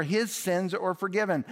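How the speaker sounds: "His" hit high, then falling; weight on "His" in "His sins are forgiven"; stress on his. Shown as a demonstration. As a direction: lean on "His" and let the rest fall. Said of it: "How can Jesus say".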